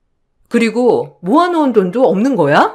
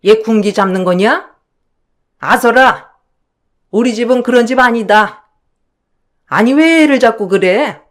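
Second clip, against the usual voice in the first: scolding mother-in-law, a bit louder; a hint of a stern mother-in-law taking sides; mother-in-law rebuking the eldest daughter-in-law, mildly stern; 4 dB louder than usual.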